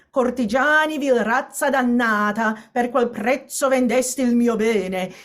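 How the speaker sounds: a spoken recitation of the quatrain; recited poem. Shown as a demonstration. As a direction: read the verse aloud so it scans simply. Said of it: "It's a very clear poem".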